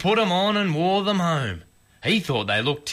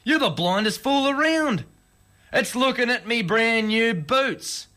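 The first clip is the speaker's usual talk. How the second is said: put-on higher-pitched, lightly indignant old husband; exasperated, but without raising the volume; mild mock yell; 6 semitones higher than usual. A narrator's reading. Husband scolding wife over his new boots, mildly yelled. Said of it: "Pop yelled".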